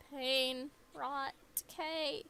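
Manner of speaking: slow dramatic proclamation of rot; ominous dramatic voice. Acted. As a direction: intone each word like a curse. Ominous voiced game lines.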